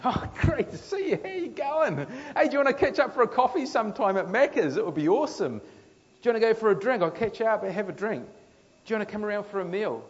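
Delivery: bright, eager mate-to-mate invitations; friendly welcome. Pretend. Jesus greeting sinners, eager and friendly. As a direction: greet them like old friends.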